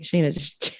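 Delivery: retold calm whisper; hushed imitation of a calm friend. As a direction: whisper it soothingly. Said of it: "she was like".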